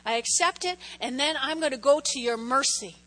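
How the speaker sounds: prayer. Pretend. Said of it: "you go".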